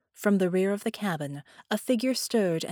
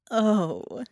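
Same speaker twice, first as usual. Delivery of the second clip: Harmony's voice; 3 semitones higher, 4 dB louder than usual. Acted. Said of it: "said in Harmony's voice".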